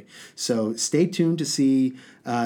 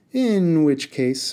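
slow, sugary sweet; butter him up before the threat; said sweetly; 4 semitones higher, 5 dB louder, slower than usual. Acted. Haroon sweetly turns the tables on the genie, slow sugary tone. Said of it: "Haroon said sweetly".

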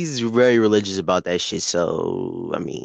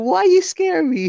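much higher, whiny demand; indignant question. Retold or imitated. Son confronting dad about the scare, high aggrieved. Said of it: "I'll ask him".

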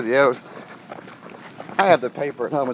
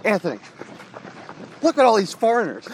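loud dad voice; 7 semitones higher than usual. Retold or imitated. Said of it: "he's talking loud".

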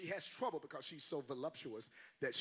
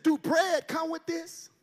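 lightly voiced lady asking; 13 semitones higher, 13 dB louder, slower than usual. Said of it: "She said".

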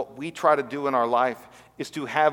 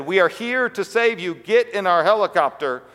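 raised, higher-pitched mock bullhorn call; bullhorn announcement; 4 semitones higher, 3 dB louder than usual. Rescuers call to the man from a helicopter, mock bullhorn announcement. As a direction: call out as if over a bullhorn, lightly acted. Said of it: "over the bullhorn they said".

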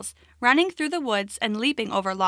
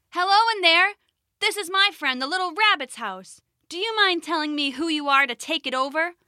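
high, friendly call into the cave; 6 semitones higher than usual. Acted. Frog hailing the stranger in the cave, calling out. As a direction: sing out a high hello to someone inside.

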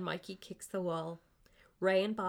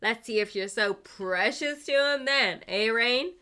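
angry threat; 4 semitones higher, 8 dB louder than usual. Acted. Ray's threatening parting shot.

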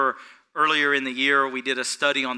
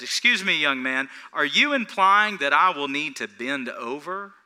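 mildly sarcastic questioning; sarcastic older man. Retold or imitated. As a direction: politely poke fun at the young salesman. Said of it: "Here is sarcasm".

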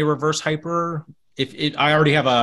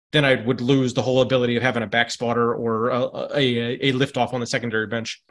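tipsy. Real, not acted. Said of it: "Sorry, I'm, I'm, uh, a little bit tipsy".

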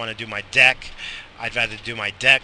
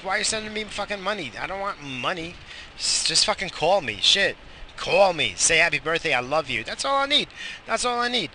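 mock mom scolding; 6 semitones higher than usual. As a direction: play the mom, quick and pleading but light. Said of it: "They're like".

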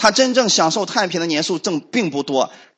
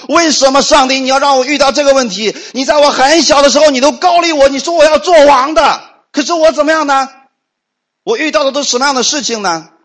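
anguished complaint; 8 semitones higher, 5 dB louder than usual. Retold or imitated. David crying out why to God.

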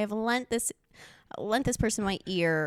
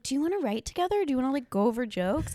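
high, quick eager asking; 6 semitones higher, faster than usual. Retold or imitated. Host retelling how she asked a comic to write, eager. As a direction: pitch it like a hopeful newcomer. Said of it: "And I was like".

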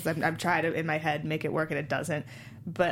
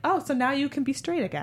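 mocking parent; 8 semitones higher than usual. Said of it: "They're like".

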